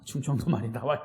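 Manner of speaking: low Chungcheong lilt, rising at the end; Chungcheong dialect. Shown as a demonstration. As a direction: let the Chungcheong accent slip out playfully. (충청도 사투리로)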